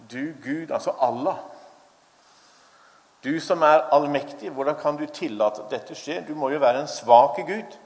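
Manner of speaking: retold anger at God. Kamal confronts an almighty God, mild mock anger. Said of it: "så opprørt og så sint".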